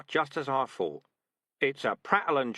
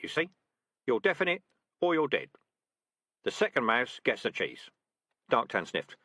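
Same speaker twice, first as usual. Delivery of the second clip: louder, confident commands; brisk rat sergeant; 3 semitones higher, 4 dB louder than usual. Acted. Sergeant rat ordering trainees to drag the trap, brisk. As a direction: give orders to the squad briskly. Dark Tan lecturing.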